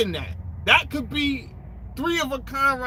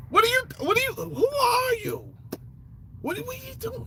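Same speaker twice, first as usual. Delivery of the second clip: high, shocked cry of disbelief; incredulous yell; 11 semitones higher, 3 dB quieter than usual. Retold or imitated. Comic baffled at someone kissing the Wailing Wall, high incredulous cry. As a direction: squeal out who are you in shock.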